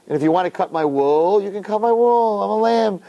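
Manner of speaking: lightly voiced docile lamb, pitch lifting; a hint of an obliging, easygoing lamb; mellow little lamb. Mellow drinker playing a willing lamb, lightly acted. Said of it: "You're a little lamb".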